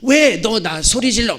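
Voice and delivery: lightly acted halting child speech; little son's clumsy Korean. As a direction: stumble through a complaint like a small child. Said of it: "말이 좀 서툴렀어요".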